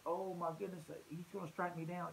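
mock dreadful fear. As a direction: play at dreading being struck down. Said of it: "dreadful fear like".

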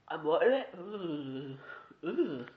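cinnamon up the nose; after cinnamon. Real, not acted. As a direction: speak through the burn. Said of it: "it went up my nose".

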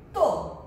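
"to" said alone, clear and loud; syllable sounded out. Shown as a demonstration. Teacher showing pupils a syllable on its own, "to" sounded out clearly. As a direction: sound out "to" as one separate syllable. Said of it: "E esse daqui é o".

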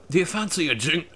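light mock Irish accent; put-on Irish accent. Streamer repeating the drink invitation, light mock Irish accent. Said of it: "you're talking in an Irish accent".

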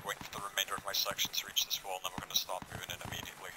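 whispering. Real, not acted. Sneaking up to enemy wall.

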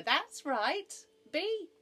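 high, loud encouragement; excited cry. A narrator's reading. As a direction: urge the speller on eagerly. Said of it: "cried Noah".

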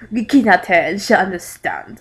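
mock French accent, everyday pitch; lightly sarcastic French voice. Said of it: "a French man said sarcastically".

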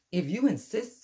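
high, loud chirpy acceptance; sparrow voice. Acted. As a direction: accept the fight with a sharp beak.

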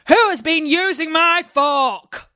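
a high, indignant little dwarf. A narrator's reading. Puzzled dwarf asking the others, high and indignant. Dwarf asks about his fork.

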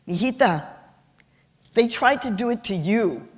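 mom in tears. Retold or imitated. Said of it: "my mom was in tears".

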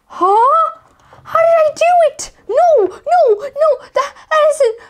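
high, loud, fast squeal of disbelief; can't believe the win, voice jumping up. Real, not acted. Opponent wins against the odds.

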